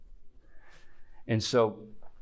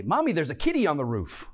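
lightly voiced child calling Mommy; a hint of a kid reporting to mom, pitched up; little girl; 5 semitones higher, 3 dB louder than usual. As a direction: tell mom like a small child. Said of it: "two little girls come into their mom".

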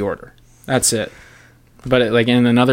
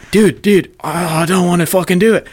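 high, loud pleading dude; a key guard begging not to launch; panicked refusal; 6 semitones higher, 3 dB louder than usual. Retold or imitated. Officer refusing his partner, high panicked shout.

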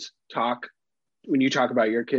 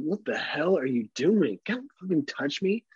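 put-on kid recoiling; 4 semitones higher, slower than usual. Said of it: "they're like".

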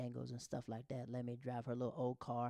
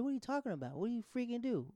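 indignant denial; 9 semitones higher, faster than usual. Acted. Acting out his defensive reply.

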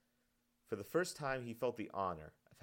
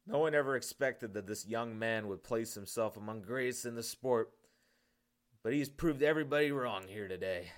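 excited commentator; 3 semitones higher, 7 dB louder than usual. Acted. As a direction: boom it out to the stadium crowd. Sports commentator addresses the crowd.

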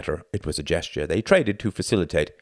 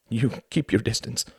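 higher, breathless warning; panted; 5 semitones higher than usual. A narrator's reading. Wife warns off her advancing husband, panting. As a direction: pant it out while backing off. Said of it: "she panted".

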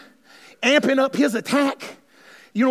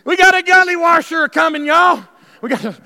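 Southern warning; 4 semitones higher, 6 dB louder than usual. Retold or imitated. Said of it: "y'all don't know Southern term".

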